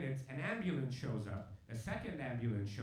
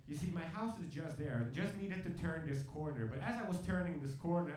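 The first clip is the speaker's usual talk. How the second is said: higher-pitched, hammed-up emotional account; mock emotional; 4 semitones higher than usual. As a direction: pretend the memory is overwhelming you. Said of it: "I'm sorry, I'm getting emotional".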